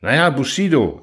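a touch of irritation, lightly voiced; slightly peeved card player; mildly annoyed fox. A narrator's reading. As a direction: fox cutting in, mildly cross. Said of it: "ärgerlich fuhr der Fuchs".

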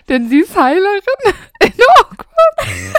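high, breaking into laughter; laughing through the words; cracking up mid-line. Real, not acted. Reads own text, laughing. (mitten im Satz losprustend)

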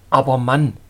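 loud, astonished outburst; astonished exclamation. A narrator's reading. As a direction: call out in disbelief. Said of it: "rief ich erstaunt aus".

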